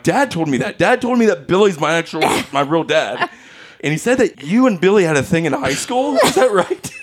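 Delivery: lightly acted high-pitched child; mock-indignant kid telling on Dad, pitch climbing; tattling kid imitation. Child tattling to Mom, retold.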